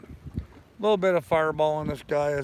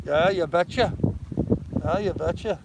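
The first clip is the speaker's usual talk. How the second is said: folksy, lilting Montana accent; bouncy "you betcha" Montana accent; 3 semitones higher than usual. Shown as a demonstration. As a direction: do a Norwegian-tinged Montana dialect. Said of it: "how to talk like the Montanas".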